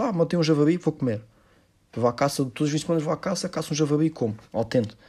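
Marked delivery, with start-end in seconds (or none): 0.0-1.2 mock proud hunter.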